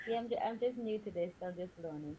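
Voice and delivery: far from mic. Real, not acted. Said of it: "you sound like you're far away".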